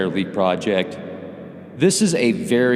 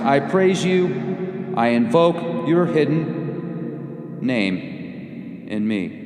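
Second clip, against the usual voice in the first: solemn prayer; 2 semitones higher than usual. Acted. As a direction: intone it like a devout invocation. Reads a hymn of praise.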